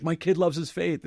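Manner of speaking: high, slow, beaming father's voice; a lightly voiced proud father; proud dad. Father bragging about his son's faith, mock proud.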